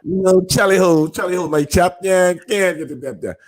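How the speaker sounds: a joking British James Bond voice with a laugh; mock British. Host teasing the actor about playing Bond, in a mock British accent. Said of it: "Wanna be James Bond".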